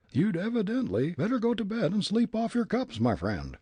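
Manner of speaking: very high, puffed-up pompous voice; pompous man. Acted. Ventriloquized pompous man offering to kick the old gent. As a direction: play a pompous bystander, thrown.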